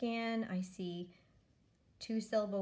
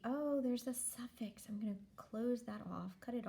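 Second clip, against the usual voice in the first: whisper; 3 semitones higher than usual. Shown as a demonstration. Teacher's stage-whisper aside.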